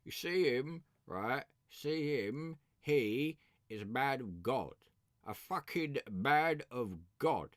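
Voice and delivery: lightly voiced cockney gangster, slow at the end; a hint of Tom Hardy's gangster; Peaky Blinders voice. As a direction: drawl the man of God line. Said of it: "in Peaky Blinders".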